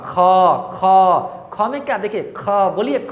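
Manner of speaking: ख pushed out with a strong h breath; breathy demo of ख; aspirated kh. Shown as a demonstration. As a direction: let the air burst out on ख. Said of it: "क्या अंदर से लगा हकार जैसी ध्वनि".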